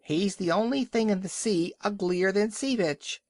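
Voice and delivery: screaming gull. A narrator's reading. Gull wheeling under the walrus's nose, high screech. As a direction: shriek it like a rude gull. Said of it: "screamed a Burgomaster gull".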